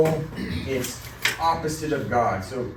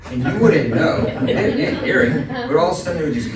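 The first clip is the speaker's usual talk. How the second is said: laughing while telling; 5 semitones higher, 7 dB louder than usual. Real, not acted. Laughing at his own gross story.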